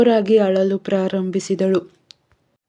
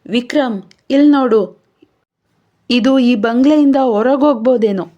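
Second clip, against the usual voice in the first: higher, louder eager call; the narrator's Tony calling his friend over, excited; excited discovery; 4 semitones higher, 5 dB louder than usual. Acted. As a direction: urgently point out the find. Tony calls Vikram to discovery.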